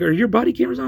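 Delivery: loud, high retold challenge; urgent demand. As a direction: call it out sharply, voice way up. Shouted question during arrest.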